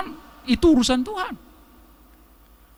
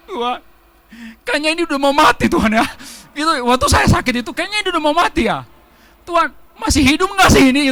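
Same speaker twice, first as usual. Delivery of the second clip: mock whine; 5 semitones higher than usual. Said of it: "Saya sering begitu".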